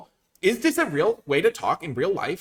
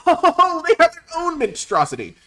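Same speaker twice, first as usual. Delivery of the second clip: high, loud amused exclaim; laughing surprise; 9 dB louder than usual. Real, not acted. Laughing surprise at opponent's card.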